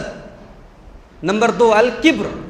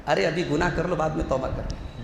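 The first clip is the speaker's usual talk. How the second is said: soft sly coaxing voice, softer; Satan's tempting; 3 semitones lower, 6 dB quieter than usual. Retold or imitated. Satan whispers into the heart, softly coaxing. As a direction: coax quietly like Satan tempting. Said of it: "शैतान दिल में ये बात डालता है".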